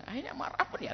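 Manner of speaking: whispered aside. Acted. Wife whispering about her husband's anger. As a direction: whisper it to yourself.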